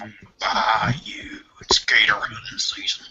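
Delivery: slow, drawn-out Southern drawl; American Southern accent. Acted. Joking about life down south, mock American Southern accent. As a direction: put on a hushed American Southern twang. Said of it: "like, the American Southern accent".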